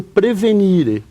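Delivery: Latin verb said in a light Italian accent. Shown as a demonstration. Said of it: "usei um sotaque italiano aqui". (leve sotaque italiano)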